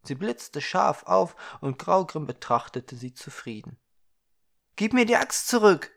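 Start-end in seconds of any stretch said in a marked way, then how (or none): 4.8-5.9 louder, higher call across the clearing. Acted. Young man calling across the clearing to the dwarf, loud. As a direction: shout to the dwarf to give it back. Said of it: "rief er hinüber".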